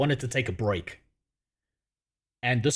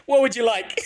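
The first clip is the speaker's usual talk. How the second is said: eager genie; 4 semitones higher than usual. Retold or imitated. Genie offers the invisible man a wish, mildly hammed-up. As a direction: lightly play the genie, pushing the offer. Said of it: "And he's like".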